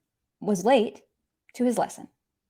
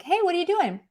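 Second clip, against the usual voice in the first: friend's question; 7 semitones higher, faster than usual. Acted. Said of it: "your friend's question of like".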